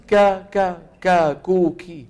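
ك، كو، كي said thin and light; teacher drilling a light kaf with vowels. Shown as a demonstration. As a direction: run through ك with each vowel, kept light. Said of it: "مثال".

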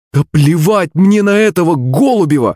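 a fierce exclamation of a daughter fed up; exclaiming. A narrator's reading. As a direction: shout her mother down. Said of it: "воскликнула маман".

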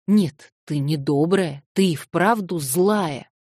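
slow, loud scolding; slow reproach. Acted. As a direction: scold her, each word weighed. Narrator scolding Nelly.

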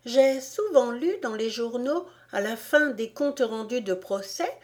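Alice pleased with her discovery; musing Alice. Acted. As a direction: think aloud in a high voice. Alice's thoughts in character voice.

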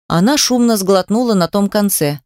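ordinary talk, nothing marked

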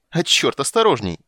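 high, loud sudden warning; startled shout. Acted. Poet yelping a warning as a goblet flies past.

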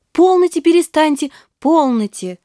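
put-on a girl guessing his confession; Nastenka cutting him off. A narrator's reading. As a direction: stop him quickly, high. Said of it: "заговорила она".

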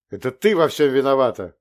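loud blurted accusation; sudden outburst. Acted. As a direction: let it burst out accusingly. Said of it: "в минутном порыве выдохнул".

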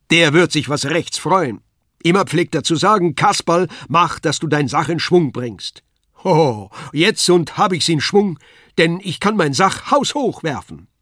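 high, loud puppet jester; Kasperl calling out. A narrator's reading. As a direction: crow it out proudly. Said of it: "rief er". (hoher, lauter Kasperl)

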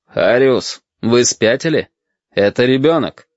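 measured, clearly articulated rebuke; distinct. A narrator's reading. Captain rebukes his lieutenant before the sailors, distinctly. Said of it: "отчётливо произнёс".

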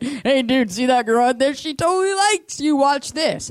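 high, loud, giddy tip-off to a buddy; acted-out gossipy teen excitement; excited teenager. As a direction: hype up your friend, pitch climbing way up. Acting out her high-school self.

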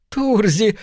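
high, wheezing cry of a name; hoarse rasp. A narrator's reading. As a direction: rasp it out, voice failing. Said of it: "просипел Смит".

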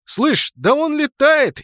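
high, loud, slow scared cry; frightened. A narrator's reading. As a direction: gasp it out in fear. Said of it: "испуганно указал Винтик".

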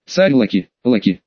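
low chanting roar of giants; crowd roar. Acted. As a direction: chant the name like a roaring crowd. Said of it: "вновь взревела толпа".

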